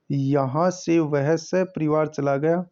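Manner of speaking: slow, deliberate reread of the sentence. Shown as a demonstration. Teacher rereads the sentence for the class, slowly. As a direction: read it again slowly, word by word.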